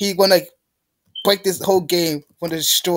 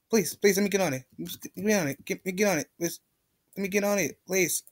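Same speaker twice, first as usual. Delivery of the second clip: quiet, repeated begging; soft pleading; 8 dB quieter, faster than usual. Real, not acted. Player begging to get on the platform, soft pleading. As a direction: beg the game under your breath. Begging the game under breath.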